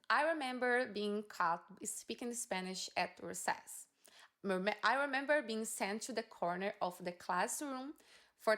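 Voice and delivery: slow, careful read-aloud of English text. Shown as a demonstration. Teacher reading the exam passage to students, slow and careful.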